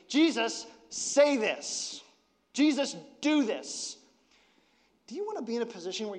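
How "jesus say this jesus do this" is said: pitched up, insistent, ordering Jesus around; mock her pushy request, higher; bossy demand. Mother bluntly demanding of Jesus, bossy and insistent. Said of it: "She says".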